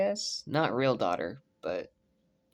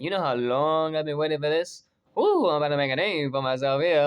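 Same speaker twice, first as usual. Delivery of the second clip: put-on Gambit accent; 5 dB louder than usual. Fan imitating Gambit in a Cajun accent. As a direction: slip into a Cajun Gambit voice, half joking. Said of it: "I almost should say that in the Gambit accent".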